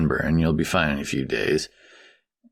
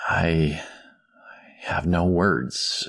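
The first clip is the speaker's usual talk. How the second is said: choked up; much slower than usual. Acted. Father overwhelmed by kindness.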